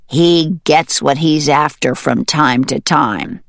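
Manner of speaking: lightly voiced mallard, emphatic warning; grave mallard. Mallard warns hen about weasel, lightly voiced grave mallard. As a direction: lightly voice a duck warning of a predator.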